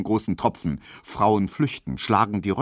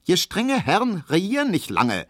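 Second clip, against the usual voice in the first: put-on croaking old grandmother; 11 semitones higher than usual. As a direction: drag the proverb out like a squawking granny. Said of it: "quäkt Großmutter Neuendorf langsam".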